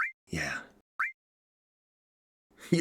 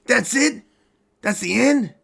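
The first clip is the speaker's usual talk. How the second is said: much higher, loud and incredulous; shocked disbelief; 5 dB louder than usual. Acted. After hearing the story just stops, a high shocked squeak.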